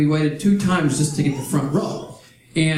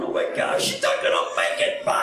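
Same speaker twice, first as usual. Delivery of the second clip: whisper; 13 semitones lower, 4 dB quieter than usual. Retold or imitated. Parents watching daughter.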